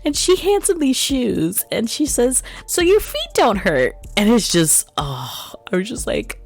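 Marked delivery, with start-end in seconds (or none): 2.6-3.9 put-on high, sweet little girl voice. To Sonic, handing him shoes, a high little girl voice. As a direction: lift it up into a tender little girl.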